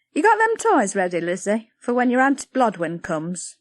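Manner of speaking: busy village mother, brisk; Patty, brisk. Acted. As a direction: bustle and grumble at the girl.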